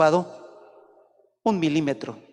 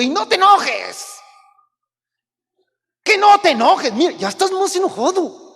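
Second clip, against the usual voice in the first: much higher, louder scolding parent; exasperated parent; 12 semitones higher, 7 dB louder than usual. Pretend. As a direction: nag the child in a shrill rising pitch. Parent scolding angry child.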